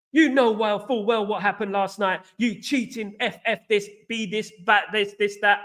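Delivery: mildly heated mock rant; imitated ballistic rant. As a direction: imitate an accusing fan, only lightly heated. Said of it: "he went absolutely ballistic".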